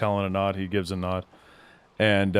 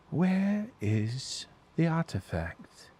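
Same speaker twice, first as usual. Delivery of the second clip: menacing elf; 6 semitones higher, 4 dB quieter, much slower than usual. Acted. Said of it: "he goes".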